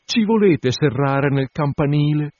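high, pleading, still teary whisper-close plea; tearful bride. Acted. Tearful bride pleading in the clerk's ear, high and anxious. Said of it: "ancora tutta lacrimosa".

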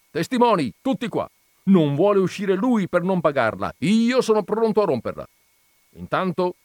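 rally the witnesses in a rage; furious landowner. Acted. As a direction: Zirafa shouts his threats before the farmhands. Zirafa calls witnesses, fuming.

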